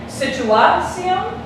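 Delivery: situación as situ-A-cion, slow and questioning; misplaced stress mid-word. Shown as a demonstration. Teacher offers another possibility, exaggerated stress on A in situación. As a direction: lean hard on the A in situación. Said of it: "where is the emphasis of my voice".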